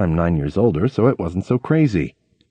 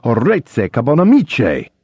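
cyclist's fake Italian curse; slower than usual. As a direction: spit out gibberish Italian at a driver. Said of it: "I gestured to the guy".

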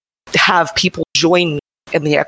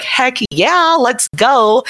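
excited; 8 semitones higher, much slower than usual. Retold or imitated. Eager reply to charity offer.

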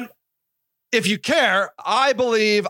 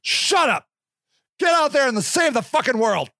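exasperated; 4 semitones higher than usual. Retold or imitated. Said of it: "I'm like".

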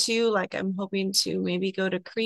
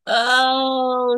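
near tears; 5 semitones higher, 3 dB louder, much slower than usual. Real, not acted. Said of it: "makes me start crying".

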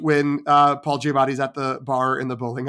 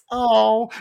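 moved "oh"; 8 semitones higher, 6 dB louder than usual. Retold or imitated. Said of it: "she immediately transitioned to just like".

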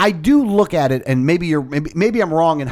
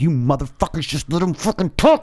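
pitched-up furious rant; reenacting yelling at the radio, higher and angry; 3 semitones higher than usual. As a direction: yell at the debaters through the radio. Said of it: "I'm like".

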